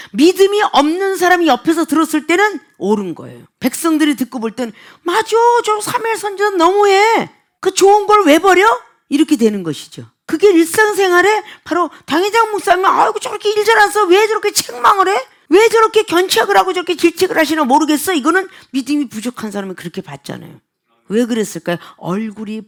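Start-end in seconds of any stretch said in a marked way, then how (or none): 5.0-8.6 high-pitched mock grumbling from bystanders; indignant complaint. Preacher voicing onlookers who side against the prophet, high indignant complaint. 12.9-18.1 high, aggrieved mock complaint; acted grumbling. Preacher imitating members questioning the pastor's rebukes, high aggrieved grumbling.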